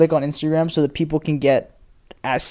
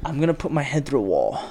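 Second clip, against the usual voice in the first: exasperated whisper; 2 semitones lower, 6 dB quieter than usual. Real, not acted. Exasperated aside.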